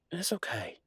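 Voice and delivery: breathy whispered reassurance. Acted. Boyfriend whispering to his girlfriend, teasing whisper.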